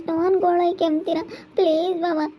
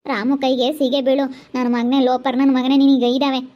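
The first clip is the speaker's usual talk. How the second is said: loud furious swearing; raging at the lecher; angry cursing; 3 semitones lower, 4 dB louder than usual. Acted. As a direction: spit curses at him, louder. Cursing the uncle angrily.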